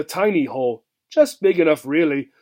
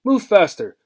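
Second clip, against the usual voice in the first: impatient; 4 semitones higher, 5 dB louder than usual. Acted. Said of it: "said Mister Durkins impatiently".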